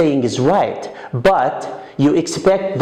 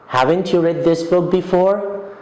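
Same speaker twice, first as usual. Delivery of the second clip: second surprised take, "you" stressed and rising; surprised question. Shown as a demonstration. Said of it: "to express surprise".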